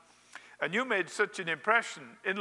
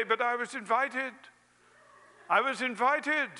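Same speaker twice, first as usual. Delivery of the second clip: pitched up high in pleading protest; indignant protest; 6 semitones higher than usual. Pretend. Guest being thrown over the fence, high indignant protest. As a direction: squeal it as you're thrown out. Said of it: "you will say".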